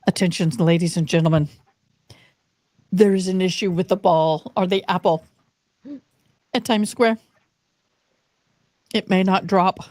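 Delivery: lightly voiced newscaster announcement; measured bulletin with pauses between phrases; news broadcaster. Host recalling the ball-drop bulletin, imitating a news broadcaster. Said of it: "I remember the news broadcaster saying".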